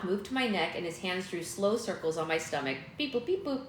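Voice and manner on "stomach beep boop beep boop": high beeping robot bleeps; toy robot voice. Pretend. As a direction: censor with robot beeps. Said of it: "Robot beep boop".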